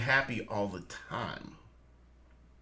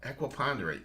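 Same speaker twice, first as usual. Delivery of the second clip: ordinary delivery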